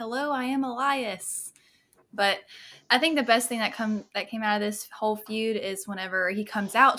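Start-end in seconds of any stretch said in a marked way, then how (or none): 0.0-1.5 very slow, deliberate, word-by-word delivery. Retelling a wrestler's entrance while strumming a guitar: imitating Elias's intro. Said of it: "strumming his guitar and saying".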